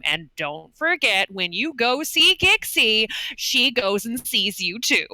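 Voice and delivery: slow, showy promo pitch to fans; influencer voice. Acted. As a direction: sell it to the fans, slowly. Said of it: "narrating to her fans".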